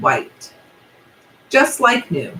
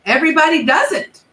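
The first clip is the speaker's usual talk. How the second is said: angry rhinoceros; 8 semitones higher, 4 dB louder than usual. Acted. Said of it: "said the angry voice".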